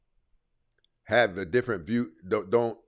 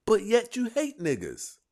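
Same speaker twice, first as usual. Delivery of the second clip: incredulous jab; 11 semitones higher than usual. Real, not acted. Incredulous accusation.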